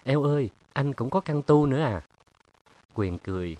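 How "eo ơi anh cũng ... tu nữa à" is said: surprised. Acted. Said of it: "tròn xoe mắt".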